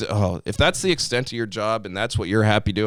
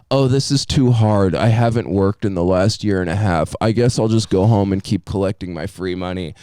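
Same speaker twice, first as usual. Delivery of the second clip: louder, mocking slacker voice; mock whiny slacker; 3 dB louder than usual. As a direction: whine it out like a spoiled quitter. Mocking lazy job seekers.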